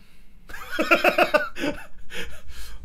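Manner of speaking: airy unvoiced laugh rising up; breathy laugh. Real, not acted. A man laughing as he recalls honking back, airy laugh.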